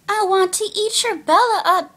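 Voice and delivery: lightly voiced hungry vampire; mock vampire villains. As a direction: taunt like a hammed-up villain.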